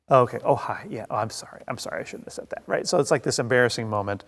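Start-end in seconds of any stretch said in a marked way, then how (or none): 0.1-2.6 softer, fading to a whisper; mock embarrassed apology. Caught badmouthing someone, whispering sorry in mock embarrassment. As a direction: shrink away apologizing.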